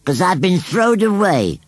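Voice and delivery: high, slow and mournful; sadly. Acted. Scarecrow tells Susan he's been thrown away, sadly. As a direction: let it droop, a thrown-away thing. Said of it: "said Gummidge sadly".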